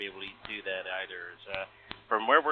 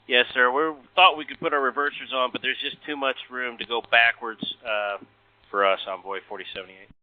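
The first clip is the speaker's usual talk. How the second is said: tinny cockpit radio call; air traffic control radio; 3 semitones higher, 3 dB louder than usual. Real, not acted. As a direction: pilot talking over the radio. Recorded pilot radio call.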